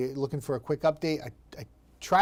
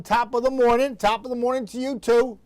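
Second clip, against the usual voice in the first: light hint of an Irish lilt, higher; Irish greeting; 8 semitones higher, 5 dB louder than usual. Real, not acted. Weatherman greeting a viewer with a hint of Irish. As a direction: toss off a playful Irish-flavoured hello. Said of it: "I feel very Irish when I say that".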